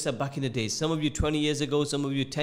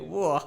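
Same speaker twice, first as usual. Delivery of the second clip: short "whoa" of temptation; imitated craving reaction. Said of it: "made my rosa go a bit".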